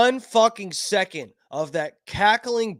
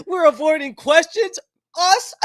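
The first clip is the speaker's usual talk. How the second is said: mock Harris; 9 semitones higher, 5 dB louder than usual. Mocking Harris dodging questions.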